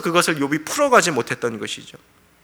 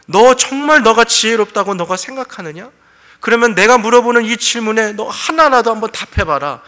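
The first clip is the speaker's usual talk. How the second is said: loud, raised voice of God reproving; stern rebuke; 7 semitones higher, 6 dB louder than usual. Acted. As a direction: challenge him with force. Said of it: "하나님이 오늘 책망하고 계신 거예요". (책망하는 호통)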